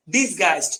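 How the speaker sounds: teacher's model "dis-gaist" for ডিসগাইজড; pronunciation demo. Shown as a demonstration. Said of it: "উচ্চারণটা হচ্ছে".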